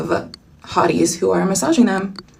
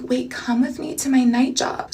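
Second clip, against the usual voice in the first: Dakota's soft voice; 3 semitones higher, 5 dB quieter than usual. Retold or imitated. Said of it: "that's how she talks".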